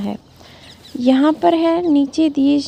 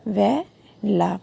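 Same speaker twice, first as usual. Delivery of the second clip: syllable by syllable; much slower than usual. Shown as a demonstration. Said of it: "ठीक है, ने व ला".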